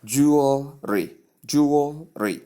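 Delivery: "Jewelry" slowly as JOO-ul-ree; correct pronunciation. Shown as a demonstration. Teacher introduces word number four to learners, slow careful pronunciation. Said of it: "right pronunciation".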